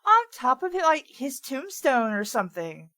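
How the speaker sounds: put-on valley girl. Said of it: "a Valley Girl accent".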